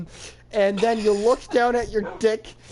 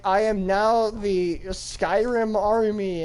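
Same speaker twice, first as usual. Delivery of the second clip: slow, measured proclamation; mock-solemn declaration; slower than usual. Player declaring himself the Skyrim army, mock-solemn. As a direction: announce it slowly, word by word. Declaring new identity in tale.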